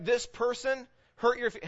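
ordinary talk, nothing marked

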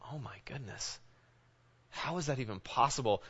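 soft, stunned sigh of disbelief; almost under the breath, shaken; hushed dismay. Retold or imitated. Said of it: "And you just go like".

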